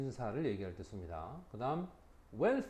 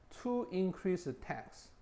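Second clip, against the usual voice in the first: very slow, higher example sentence; slow reading; 4 semitones higher, much slower than usual. Shown as a demonstration. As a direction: drag it out word by word. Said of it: "slow example reading". (예문을 천천히 높게)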